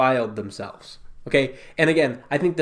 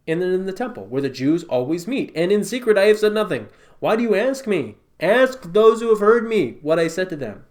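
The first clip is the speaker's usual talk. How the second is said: higher and louder, pointed sarcasm; sarcastic Jesus; 5 semitones higher, 3 dB louder than usual. Retold or imitated. Jesus answering the high priest, mildly sarcastic. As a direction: toss it back with a knowing bite. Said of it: "responds in a sarcastic way".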